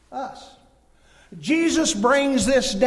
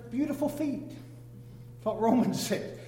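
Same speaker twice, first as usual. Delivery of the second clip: laughing; 6 dB quieter, slower than usual. Real, not acted. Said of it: "I'm saying that jokingly".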